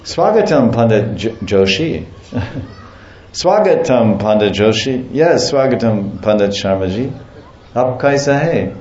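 chuckling mock formal Swagatam; laughing pundit greeting. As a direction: play two stiff scholars, laughing through it. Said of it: "two pundits meet in the marketplace".

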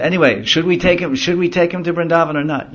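high, loud rallying question; showman charioteer. Retold or imitated. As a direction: whip up the crowd. Charioteer asks crowd.

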